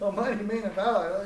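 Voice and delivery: repeating "mighty man of valor" in disbelief; mock baffled Gideon; incredulous echo. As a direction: toss the title back as if it's absurd. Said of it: "picture Gideon looking around like".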